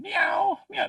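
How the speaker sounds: high-pitched imitated meow; baby's cat noises. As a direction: mimic a baby meowing like a cat. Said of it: "She started making cat noises".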